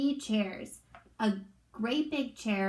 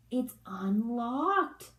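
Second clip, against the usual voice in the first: put-on curious girl; much slower than usual. Daisy voiced in story.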